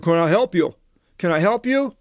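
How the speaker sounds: a guard at the gate repeating his offer; gate guard calling out. Retold or imitated. Harvard gate guard greets the lost visitor, mock calling out.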